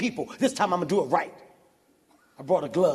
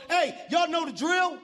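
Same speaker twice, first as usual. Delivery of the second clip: higher-pitched rallying call, lightly acted; protester leading the way; 4 semitones higher than usual. Lead marcher instructing the crowd, lightly imitated rallying call. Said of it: "The black guy in the front goes".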